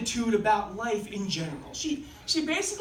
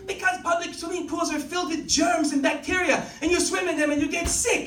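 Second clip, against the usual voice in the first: put-on higher, emphatic French Canadian accent; 4 semitones higher, 3 dB louder than usual. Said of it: "like, French Canadian accent".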